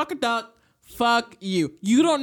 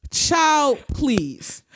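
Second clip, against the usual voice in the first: exasperated dismissal; 4 semitones higher than usual. Real, not acted. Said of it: "As in the words of Gam".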